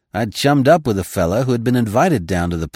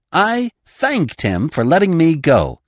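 moaning; 10 semitones higher, 5 dB louder, slower than usual. Acted. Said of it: "writhing at the memory".

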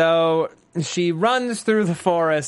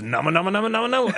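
rising video game character chant; Yoshimitsu; 6 semitones higher, much faster than usual. Retold or imitated. Host recalling a fighting-game character's cry, imitated climbing chant. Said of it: "it's Yoshimitsu from Soul Calibur".

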